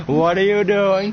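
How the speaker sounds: high, loud startled cry; alarmed shout. Acted. Fighter watching his rival back off, alarmed shout. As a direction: demand it in alarm.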